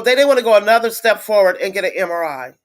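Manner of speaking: fast, tearful frustration; crying. Real, not acted. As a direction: rush it through real tears.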